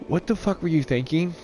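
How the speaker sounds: mock disbelief at a bad screen; incredulous outburst. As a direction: sound truly thrown by it. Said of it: "you're just like".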